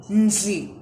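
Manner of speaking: Ndli with a clear nasal n onset; teaching pronunciation; model syllable. Shown as a demonstration. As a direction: repeat Ndli cleanly. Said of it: "Do you hear the difference".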